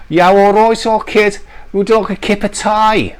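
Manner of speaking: put-on Black Country accent. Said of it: "That was quite good".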